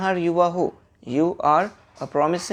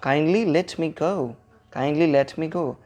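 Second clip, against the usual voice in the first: polite request; much slower than usual. Shown as a demonstration. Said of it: "politely बोल रहे हैं तो आप कहेंगे".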